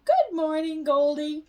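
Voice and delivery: put-on bright, lifted little-girl greeting; Sister's cheery greeting. A narrator's reading. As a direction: call hello to the fish happily. Sister greeting her fish cheerfully.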